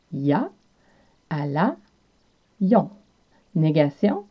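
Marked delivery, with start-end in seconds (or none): 0.1-2.9 Quebec French accent. Shown as a demonstration. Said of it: "il a en québécois devient y a".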